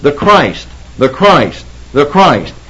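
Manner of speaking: "Christ" repeated as separate, falling statements; emphasis on Christ. Shown as a demonstration. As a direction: drive home "Christ" each time, pausing between repeats. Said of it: "You notice the emphasis?".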